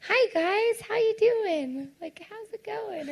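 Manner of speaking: high, bright mock-friendly welcome; cheerful host greeting. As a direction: greet the audience sweetly. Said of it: "I didn't even say".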